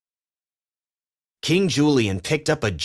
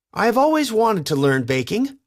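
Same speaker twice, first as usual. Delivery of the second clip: suddenly; 11 semitones higher, 3 dB louder than usual. A narrator's reading. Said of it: "Private said suddenly".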